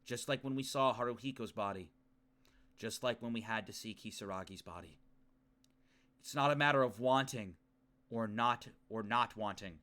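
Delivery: low, subdued inner monologue; grave, measured character reading; story narration. Acted. Reading Yuki's resolve to end the nightmare, sombre narration.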